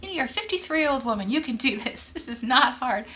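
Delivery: pep talk to self. Retold or imitated. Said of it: "doing a lot of self-talk".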